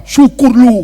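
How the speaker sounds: loud gloating jab. Retold or imitated. Preacher voicing a churchgoer gloating at an enemy's accident. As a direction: spit it out with glee. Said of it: "Saudara bilang apa?".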